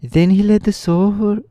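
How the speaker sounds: put-on high-pitched boy voice, carried into narration; Tip voice. A narrator's reading. Narrator slipping into Tip's high voice by mistake. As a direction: keep reading in the high Tip voice. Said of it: "reading in this Tip accent".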